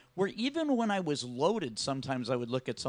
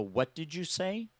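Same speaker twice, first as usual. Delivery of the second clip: that tone. Retold or imitated. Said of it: "Like, in that tone".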